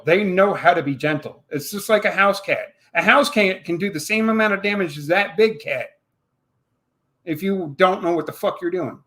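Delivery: ordinary talk, nothing marked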